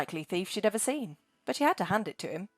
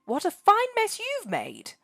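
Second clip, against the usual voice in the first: muttering dragon; 13 semitones higher, 3 dB louder than usual. Acted. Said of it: "she muttered".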